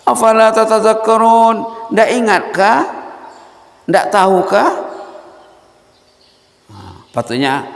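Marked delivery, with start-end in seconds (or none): 0.0-4.7 high, loud, slow "Afala" asked in anger; angry questioning. Shown as a demonstration. Preacher showing the verse asked with anger. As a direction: demand it as a furious question. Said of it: "bertanya tapi ada nada marah".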